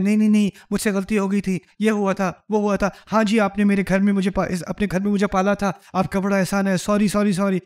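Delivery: fast, fumbling defensive excuses; lightly acted nervous backpedalling; mock flustered apology. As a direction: babble sorry like a cornered man. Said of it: "کہ وہ شاید defensive ہو جائے".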